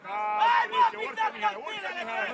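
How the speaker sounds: high-pitched shouted instruction; urgent calling out. Real, not acted. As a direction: call urgently to a player upfield. Urgent instructions called to player.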